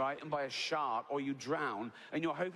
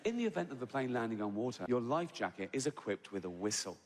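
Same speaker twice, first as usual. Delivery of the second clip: lightly mocked safety-video announcer, lower at the end; calm hypnotic voice; 4 semitones lower than usual. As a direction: soothe like a safety announcement, tongue in cheek. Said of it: "that calm, hypnotic voice".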